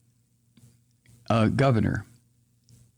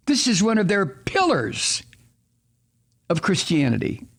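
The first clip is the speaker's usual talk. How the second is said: rising, higher-pitched outrage, listing with heat; getting upset; 4 semitones higher than usual. Real, not acted. Ranting to viewers about gun-toting Christmas cards, upset and higher. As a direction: voice climbing in real indignation. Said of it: "I don't know why I'm getting so upset".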